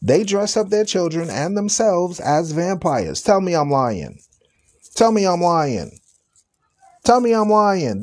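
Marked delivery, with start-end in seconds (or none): 3.2-8.0 challenge. Real, not acted. Repeated challenge to the audience.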